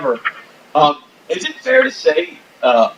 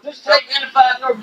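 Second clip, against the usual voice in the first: jeering redneck; 7 semitones higher than usual. Acted. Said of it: "get the fuck out of here".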